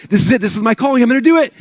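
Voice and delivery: imitated thrill at a sales pitch; mock excitement. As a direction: play the pumped-up newbie. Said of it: "probably got excited".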